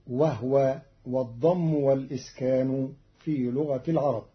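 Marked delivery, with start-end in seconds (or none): 0.1-0.8 وهو said wahwa, ha without a vowel; silent ha. Shown as a demonstration. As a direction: close the ha in وهو. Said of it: "فتصير". (وهو بإسكان الهاء)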